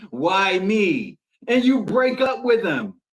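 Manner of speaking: hammed-up astonishment at being chosen; mock disbelief. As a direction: act stunned that they picked you. Voicing a doubting partner's thoughts.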